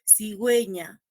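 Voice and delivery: "cigüeña" with the U clearly produced; teacher models "cigüeña" as si-gwe-ña; U sounded in cigüeña. Shown as a demonstration. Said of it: "Produzco esa U". ("cigüeña" produciendo bien la U)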